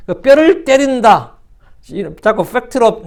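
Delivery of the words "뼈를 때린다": "뼈를 때린다" drawn out slowly, pitched high; slow, high punch on "뼈를 때린다"; emphatic phrase. Shown as a demonstration. Acts out a slang phrase emphatically.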